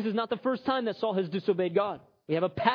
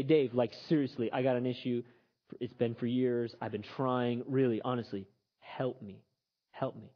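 begging for help; 6 semitones lower, 4 dB quieter than usual. Acted. Imagined congregant begging for help.

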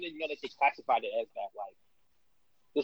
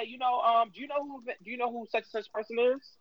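Jalen Rose impression; 7 semitones higher than usual. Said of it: "That was a, that was a pretty good Jalen".

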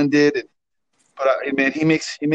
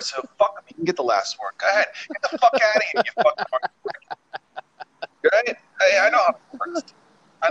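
shaking with anger; 5 semitones higher than usual. Acted. Ranting about hang-up.

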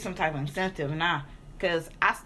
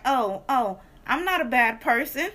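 flustered lady; 4 semitones higher, 4 dB louder than usual. Retold or imitated. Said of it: "she was like".

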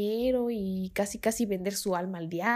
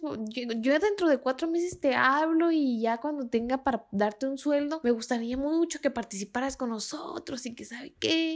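salesman voice; 3 semitones higher than usual. Retold or imitated. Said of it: "tenía esa vocecita de vendedor de OmniLife".

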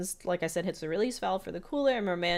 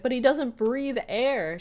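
Dipper protest; 7 semitones higher, 5 dB louder, slower than usual. Retold or imitated. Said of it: "And Dipper's like".

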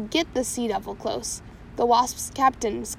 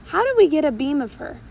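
timid; 4 semitones higher, 5 dB louder than usual. Acted. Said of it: "Shmee said timidly".

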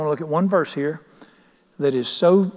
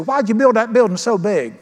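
a touch of a critic's irritation, raised; mock irritated complaint; 5 semitones higher, 4 dB louder than usual. Preacher imitating an annoyed critic, mildly mocking. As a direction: imitate a grumbling churchgoer. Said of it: "people just get ill with me and say".

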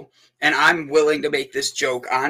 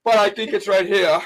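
performed bit; 4 semitones higher than usual. Acted. Host performing his joke bit for the guests. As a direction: deliver the joke as a little skit. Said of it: "This is how it goes".

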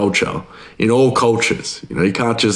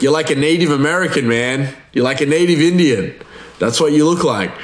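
higher, emphatic retold assertion; mock insistence; 5 semitones higher than usual. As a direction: imitate an insistent buddy, pitched up. Retold coworker insisting on his look.

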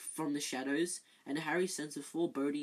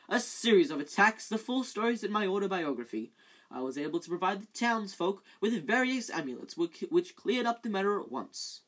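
loud, higher showing-off Lockhart voice; boastful Lockhart; 4 semitones higher, 6 dB louder than usual. Acted. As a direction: brag to the room like a vain celebrity wizard.

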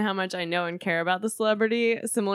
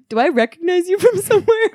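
excited quote; 10 semitones higher, 9 dB louder than usual. Retold or imitated. Quoting Trebek while laughing.

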